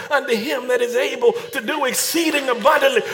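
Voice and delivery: rising, building sermon shout; preaching. Real, not acted. Preaching at full force.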